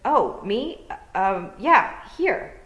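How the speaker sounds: high, loud startled answer; flustered. A narrator's reading. Tiffany caught out by the Kelda, flustered and high. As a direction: caught out and fumbling.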